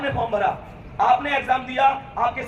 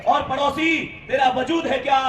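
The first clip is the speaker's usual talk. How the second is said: measured, emphatic verse delivery; shayari recitation. Acted. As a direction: recite rousing couplets to a crowd. Recites motivational couplets to students. (जोशीला शायरी पाठ)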